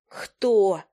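a teasing echo of her friend's question; lightly mocked imitation; mocking mimicry. A narrator's reading. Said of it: "передразнила меня Фая".

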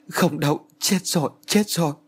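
high, frantic denial; terrified. A narrator's reading.

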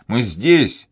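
громко, ударение на «здесь»; кричит, нажимая на «здесь»; повторный крик. A narrator's reading. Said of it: "закричал Данник". (кричит собаке: «мы здесь!»)

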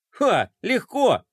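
suddenly keen and confident; perking up. Acted. Fly eagerly offers to help, perking up. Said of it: "оживился Флай".

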